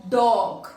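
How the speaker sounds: "dog" as one long beat; one syllable. Shown as a demonstration. Teacher proves only one syllable, one long beat. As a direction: say "dog" drawn out in a single piece. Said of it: "because we pronounce it as".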